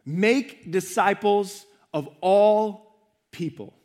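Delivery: very slow, make held apart with pauses after; stress on make. Shown as a demonstration. Preacher urging the congregation with Jesus' words, stress on make. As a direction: land on make, then give disciples, all and people room. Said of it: "the verb that has the emphasis".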